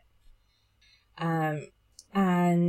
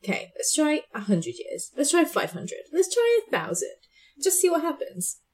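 rising playful quote; 7 semitones higher than usual. Retold or imitated. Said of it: "I'll be like".

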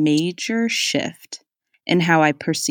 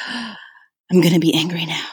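mock determination. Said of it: "and I'm just like".

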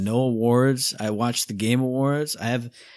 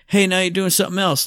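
mock boss; 8 semitones higher, 6 dB louder than usual. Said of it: "the boss went".

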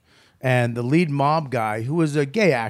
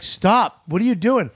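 exasperated higher-pitched protest; pissed off; 7 semitones higher, 3 dB louder than usual. Retold or imitated. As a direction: imitate a co-actor freaking out. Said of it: "He's literally pissed off. He's freaking out".

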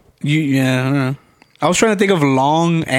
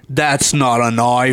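put-on a slow, lightly done Australian accent; 5 semitones lower, slower than usual. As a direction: drawl it like a Crocodile Dundee Australian. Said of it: "Hugh Jackman's Australian accent".

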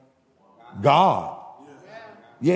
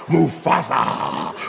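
lower, very slow Mufasa; drawn-out scared whisper of the name; 6 semitones lower, much slower than usual. Retold or imitated. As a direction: stretch Mufasa out slow and low, spooked. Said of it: "the other hyena said".

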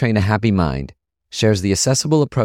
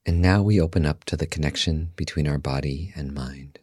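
guided meditation; 4 semitones lower, 6 dB quieter than usual. Acted. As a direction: guide listeners calmly into stillness, softly and unhurried.

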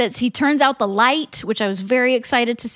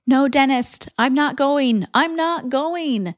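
sleep talking; 3 semitones higher, slower than usual. Acted. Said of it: "sleep talking and saying".

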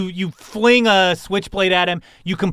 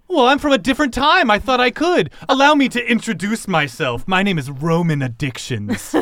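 intense; 6 semitones higher than usual. Acted. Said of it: "You sound intense".

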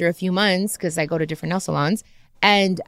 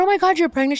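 high, surprised gasp of a question; a mild replay of real astonishment; retold surprise; 10 semitones higher, faster than usual. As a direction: squeal it like fresh news. Retelling meeting the pregnant stylist.

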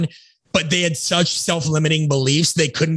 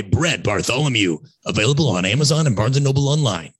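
late night radio dj; 3 semitones lower than usual. Pretend. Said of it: "Can I do my late night D J F M voice?".

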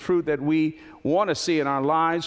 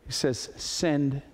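hushed closing appeal; 5 semitones lower, 4 dB quieter than usual. Acted. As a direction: draw them in gently over the music. Soft closing over music.

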